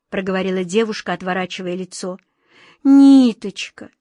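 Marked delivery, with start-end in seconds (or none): 2.8-3.9 high, guilty little plea; a guilty child's higher plea. Acted. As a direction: apologize like a child caught out. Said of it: "виновато сказала Глазастик".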